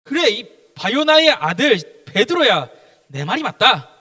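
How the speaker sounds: Jesus. Acted. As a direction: confirm the disciple's answer with slow, loud weight. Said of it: "예수님께서 뭐라 그러냐?". (힘주어 느리게 인정하는 스승 말투)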